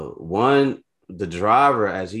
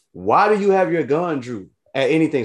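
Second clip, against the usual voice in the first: much higher, louder, indignant demand; angry challenge; 10 semitones higher, 6 dB louder than usual. Retold or imitated. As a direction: confront the cop about the gun. Confronting cop about gun.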